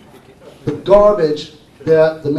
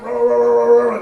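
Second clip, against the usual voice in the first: higher and louder, a ranting customer's yelling; mock screaming; 6 semitones higher, 7 dB louder than usual. Customer calling up to yell about his car, mock screaming. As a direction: imitate an angry caller yelling down the phone. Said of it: "And he was screaming at me".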